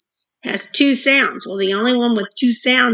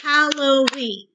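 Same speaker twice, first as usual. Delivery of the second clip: slow syllables; 2 semitones higher than usual. Shown as a demonstration. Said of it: "let's do that one again".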